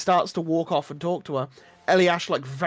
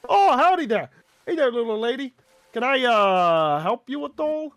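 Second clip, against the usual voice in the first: high, loud folksy shopkeeper greeting; leering wheezy old man; 4 semitones higher, 4 dB louder than usual. Acted. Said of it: "the name's, uh, Gunther Bigglesby".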